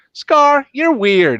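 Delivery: put-on squeaky kid blurting it out. A kid teasing Scar, high and loud. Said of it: "the kid comes up to him and goes".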